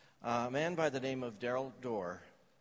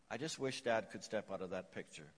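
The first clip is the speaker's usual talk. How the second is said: put-on the boy's wish echoed much softer and lower; softly repeated; 6 semitones lower, 7 dB quieter than usual. A narrator's reading. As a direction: let the line sink to a hushed echo. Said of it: "said tearfully".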